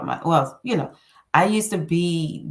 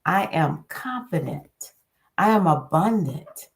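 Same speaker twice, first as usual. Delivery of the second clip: affirmation demo. Shown as a demonstration. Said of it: "I want you to speak into yourself".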